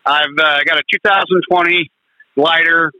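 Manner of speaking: caller breaking up on the line; crackly phone line, dropping out; crackly cordless phone. Real, not acted. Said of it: "Oh, you're breaking up".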